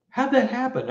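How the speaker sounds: high, baffled question; stunned question. Retold or imitated. Husband to wife as the car disappears again, stunned. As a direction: ask it as if nothing makes sense. Retold shock at car vanishing.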